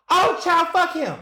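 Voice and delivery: high sassy brush-off; dismissive. Retold or imitated. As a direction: wave him off with a high sassy tone. Dismissive reaction retold.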